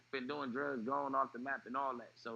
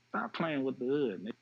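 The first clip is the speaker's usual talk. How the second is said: louder, incredulous protest; retold disbelief; 4 dB louder than usual. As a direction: brush off the news, refusing to believe it. Disbelief at news of death.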